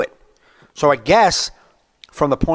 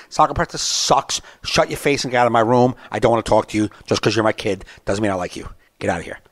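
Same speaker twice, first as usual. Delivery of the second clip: blunt brush-off, trailing down; blunt truth. Acted. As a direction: drop the act and dismiss them. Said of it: "tell the fucking truth".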